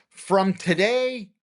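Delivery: slow and dramatic, a hint of movie godfather; cinematic mob boss. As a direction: play it like a gangster film underboss. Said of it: "very cinematically said".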